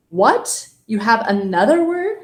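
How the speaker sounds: loud, exaggerated disbelief; mock surprise. Teacher pretending to be a baffled learner, mock-surprised. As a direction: act stunned by the extra word. Teacher feigns shock at new verb form.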